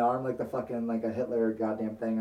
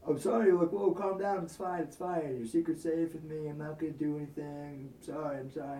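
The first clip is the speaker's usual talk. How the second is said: mock placating; 2 semitones higher, 5 dB quieter than usual. The blackmailer calming the boy, mock soothing. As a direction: soothe him with fake sweetness.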